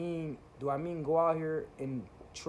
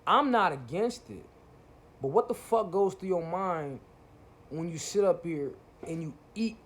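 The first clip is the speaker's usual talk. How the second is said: heated rant; 3 semitones higher, 5 dB louder than usual. Real, not acted. Ranting at conscious YouTubers.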